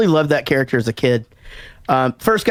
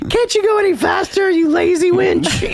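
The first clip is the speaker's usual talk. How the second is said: harsh barking commands. Retold or imitated. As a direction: bark the order at her, hammed up. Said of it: "he's just like".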